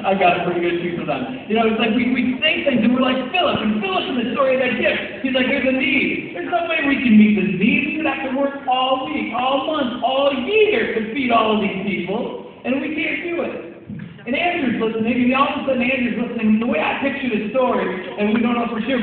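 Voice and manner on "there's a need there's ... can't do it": mock sarcastic complaint. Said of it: "he gets all sarcastic".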